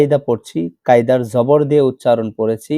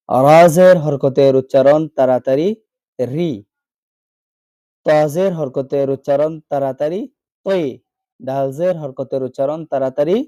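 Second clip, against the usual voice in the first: singsong letter drill, each phrase rising at the end; rote spelling drill; 2 semitones higher than usual. Shown as a demonstration. Teacher drilling Arabic letters with zer for learners, rote singsong. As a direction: recite by rote, pausing before each short syllable.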